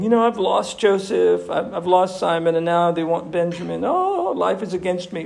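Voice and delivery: mildly acted lament of an old father; despairing Jacob. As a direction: list your losses with a touch of despair. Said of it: "Jacob's despairing".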